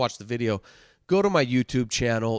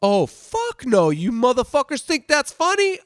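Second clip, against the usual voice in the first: mock angry outburst; 11 semitones higher, 8 dB louder than usual. Instructor turns on laughing recruits.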